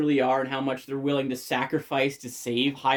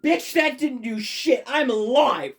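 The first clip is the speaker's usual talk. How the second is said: higher, slow, defiant mock villain; Ganondorf; 7 semitones higher than usual. Ganondorf mocking the sages after being stabbed, slow and defiant. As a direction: sneer it like shrugging off a stab. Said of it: "And he's like".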